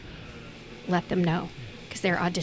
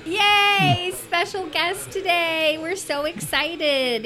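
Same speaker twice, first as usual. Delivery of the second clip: excited; 10 semitones higher, much slower than usual. Real, not acted. Welcoming the special guest.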